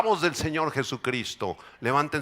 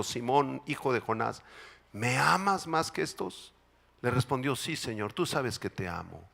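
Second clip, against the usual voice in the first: quiet scripture reading; 4 dB quieter than usual. Acted. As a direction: read it gently, as a tender dialogue. Reads Scripture softly. (lectura bíblica suave y pausada)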